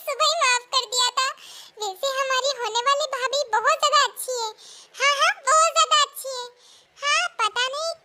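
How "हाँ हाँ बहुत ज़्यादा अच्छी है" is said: laughing. Acted. Teasing agreement about future sister-in-law.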